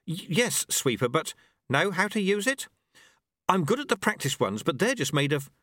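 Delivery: a startled novice stammering; nervous boy. A narrator's reading. Apprentice answers his master, nervous. Lobsang voiced.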